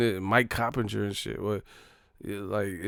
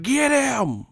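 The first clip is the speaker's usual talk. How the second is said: high mock holler; mimicked bigot; 4 dB louder than usual. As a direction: yell it high and drawn out. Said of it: "He's like".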